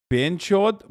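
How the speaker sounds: "Ben Chot" with a plain short e in Ben; trying out pronunciation. Shown as a demonstration. Streamer practicing a Hindi word, "Ben Chot" tried carefully. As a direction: sound out "Ben Chot" as a first attempt. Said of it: "trying to say words correctly".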